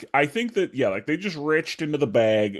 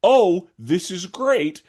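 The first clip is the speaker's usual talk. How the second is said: smug; 7 semitones higher, 3 dB louder, slower than usual. Retold or imitated. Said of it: "they thought".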